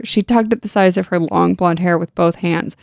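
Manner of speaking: ordinary delivery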